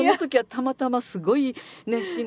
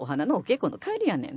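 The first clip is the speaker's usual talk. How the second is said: pointed, reproachful. Shown as a demonstration. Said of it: "当てつけで言うんやったら".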